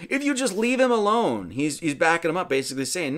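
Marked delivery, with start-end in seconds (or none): 0.1-1.5 bad Arthur voice. Young Arthur defends Merlin to his father, in a bad high boy voice. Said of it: "my Arthur voice is terrible".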